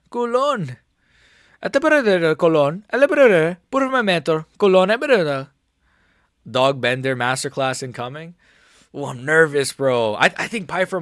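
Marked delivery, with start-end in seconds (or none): 0.1-5.5 high, loud Latino fighter voice; hyped Latino accent impression. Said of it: "good at doing Latino accents".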